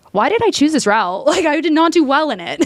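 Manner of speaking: telling her husband, laughing; laughing disbelief. Retold or imitated. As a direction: laugh at your own choice.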